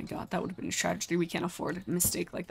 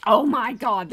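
excited rave; 4 semitones higher, 9 dB louder, slower than usual. Real, not acted. Raving about garlic fries.

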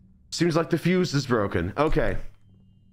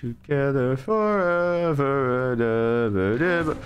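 creepy singsong; 4 semitones lower, slower than usual. Pretend. Reading game's creepy line.

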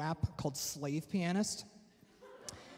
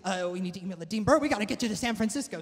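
excited rush; 4 semitones higher, faster than usual. Retold or imitated. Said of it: "it's like".

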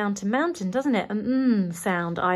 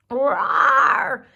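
high, louder bear roar then plea; 7 semitones higher, 4 dB louder than usual. Acted. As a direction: roar it, then beg for lemonade. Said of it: "said Gary".

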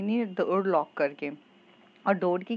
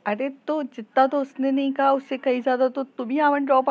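plain reading voice

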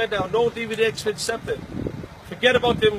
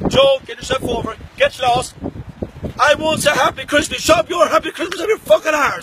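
angry shout; 5 semitones higher, 4 dB louder than usual. Real, not acted. Angry Christmas callout shouting.

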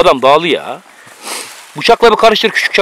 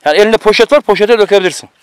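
slightly raised, nagging voice; raised-voice scolding. Real, not acted. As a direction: scold a companion, voice a little raised. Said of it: "niye bağırıyorsun küçücük çocuğa".

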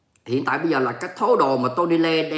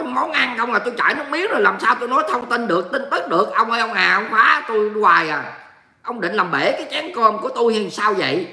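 higher-pitched, playful wail of protest; mock exasperation; 4 semitones higher than usual. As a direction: complain helplessly at a teasing viewer. Playful complaint about food teasing. (than vãn, giả bộ bực vì bị chọc)

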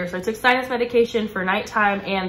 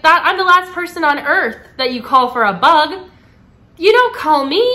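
mock exasperated rant; 6 semitones higher, 7 dB louder than usual. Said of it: "yeah, I was like".

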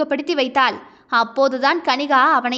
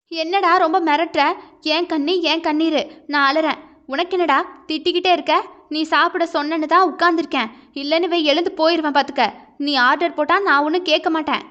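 put-on lightly raised young woman's voice, defiant; a hint of the wife's indignant pushback, quicker; lightly voiced wife arguing back on the phone; heroine talking back; 3 semitones higher than usual. Heroine snaps back at husband.

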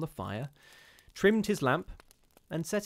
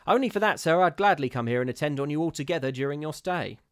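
put-on higher, louder scornful old charwoman; the charwoman scoffing at ghosts, higher and louder; superior charwoman; 4 semitones higher, 6 dB louder than usual. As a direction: sniff down at the gentleman's fears. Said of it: "she answered".

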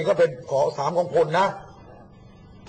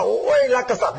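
high, louder mimicked exclamation; mock devotion; 8 semitones higher, 4 dB louder than usual. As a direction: exclaim it as a hammed-up show of loyalty. Mimics professed love of king. (อุทานเสียงสูงล้อเลียนความจงรัก)

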